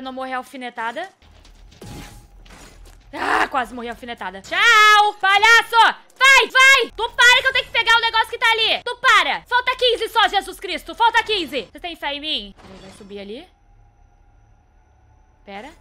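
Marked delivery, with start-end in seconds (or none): 4.4-11.7 high loud excited shouting; frantic yelling. Real, not acted. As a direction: yell at the monsters in a frenzy. Yelling at the game statues.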